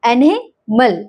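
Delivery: एनिमल slowly as a-nə-məl; slow, broken-up एनिमल with a schwa for the I; syllable by syllable. Shown as a demonstration. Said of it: "आई की sound अह". (एनिमल धीरे-धीरे तोड़कर, शवा के साथ)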